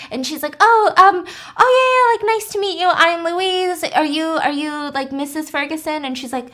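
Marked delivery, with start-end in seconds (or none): 0.6-6.0 high, louder, nervous stammer; flustered. Retold or imitated. Louise meeting the wife of the man she kissed, flustered. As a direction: caught off guard, babbling.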